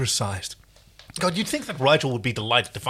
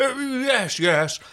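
irritated snap; 12 semitones higher, 3 dB louder, much slower than usual. Acted. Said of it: "Rigel snaps with a flash of irritation".

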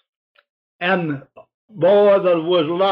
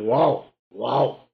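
hound baying; 6 semitones lower than usual. Retold or imitated. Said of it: "one old hound said".

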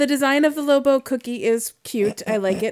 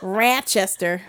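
slow local Rochester pronunciation; Rochester accent; 3 semitones lower, 3 dB quieter, much slower than usual. Shown as a demonstration. Showing how locals say it, slow Rochester accent. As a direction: stretch "Rochester" with a broad upstate A. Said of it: "that's how they might say that".

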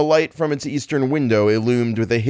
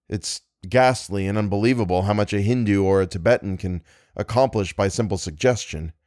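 calm rational friend. Acted. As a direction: reason gently with a frightened man. Algernon explains calmly.

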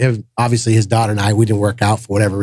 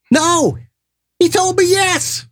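laughing retelling; much slower than usual. Retold or imitated. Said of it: "Archie goes".

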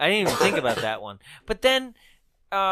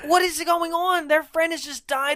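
high-pitched, incredulous protest; baffled outburst; 10 semitones higher than usual. Real, not acted. Host protesting the film's callous characters, high-pitched and baffled. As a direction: voice jumps way up in disbelief.

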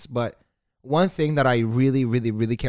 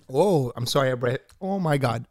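embarrassed laugh. Real, not acted. Burps into mic, embarrassed.

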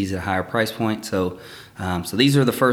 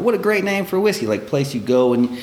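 lightly voiced inner thought; 4 semitones higher than usual. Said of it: "And I thought".

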